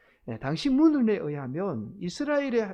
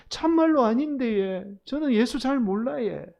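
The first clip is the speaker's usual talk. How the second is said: high, loud Gyeongsang dialect protest; flustered Gyeongsang dialect; 6 semitones higher, 4 dB louder than usual. Acted. Flustered Peter denying Jesus to Seoul people, high Gyeongsang dialect. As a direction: deny it in a flustered Gyeongsang lilt, pitched right up. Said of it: "이번에도 당황한 베드로가".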